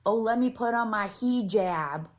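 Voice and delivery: hammed-up American Texan drawl parody; mock a clumsy Texan accent on Arabic words. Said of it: "like, a Texan accent".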